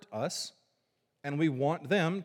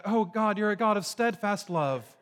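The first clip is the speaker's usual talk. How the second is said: higher, louder rejoicing prayer; joyful praise; 4 semitones higher, 3 dB louder than usual. Retold or imitated. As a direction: lift it up like a happy thanksgiving. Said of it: "talks about it in this positive way".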